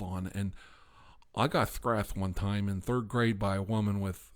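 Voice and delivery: a loud hammed-up paranoid weirdo; weird character voice. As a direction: rant like a twitchy suspicious oddball. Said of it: "I've been doing this weird voice".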